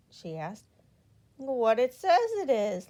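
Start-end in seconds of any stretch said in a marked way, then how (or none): 1.4-2.9 laughing. A narrator's reading. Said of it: "laughed Mister Happy".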